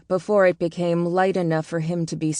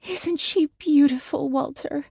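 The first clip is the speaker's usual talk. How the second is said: put-on a touch of wonder at the baby; tender wonder; 9 semitones higher than usual. A narrator's reading. Woman showing her husband the baby, marvelling.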